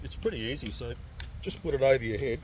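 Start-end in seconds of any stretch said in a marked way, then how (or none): 2.2-2.4 muffled behind respirator; speaking inside breathing mask; through a face mask. Real, not acted. Seen 0: Clear half mask over his nose and mouth throughout.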